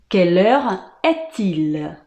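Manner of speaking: slowly repeated question, pause midway; measured, separated chunks for learners; slow French model. Shown as a demonstration. Teacher repeating how to ask the time, slow and segmented. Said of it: "A gente fala".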